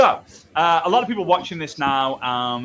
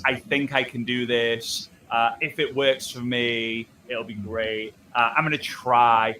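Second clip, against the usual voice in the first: slower, lower and half-hearted; tentative belief; 4 semitones lower than usual. Acted. Coach mimicking someone who merely believes, tentative. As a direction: sound like you only think you can. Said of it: "Belief is".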